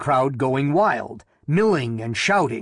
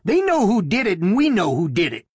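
excited, higher, pushing toward falsetto; excited, rising to falsetto; 6 semitones higher than usual. A narrator's reading. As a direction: let the voice climb into falsetto in agitation. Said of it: "Haskins said excitedly, his voice rising to a falsetto".

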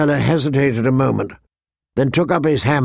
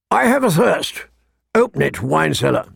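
brusque knight; 3 semitones higher than usual. Acted. Knight demanding wine from the seller, brusque. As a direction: demand it curtly, dropping back on the order.

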